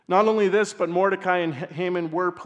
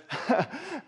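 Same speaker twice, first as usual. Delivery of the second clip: stifled laugh; 9 semitones higher than usual. Real, not acted. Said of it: "I'm trying not to laugh".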